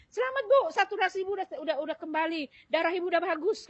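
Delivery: lightly voiced doctor giving good news; doctor congratulating patient. Doctor tells the patient she has recovered, lightly imitated congratulations. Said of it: "dokter ngomong sama dia".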